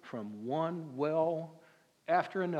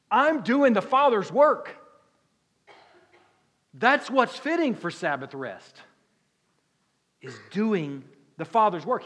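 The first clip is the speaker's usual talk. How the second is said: fiery preaching; 5 semitones higher, 9 dB louder than usual. Real, not acted. Preacher's climax quoting Jesus.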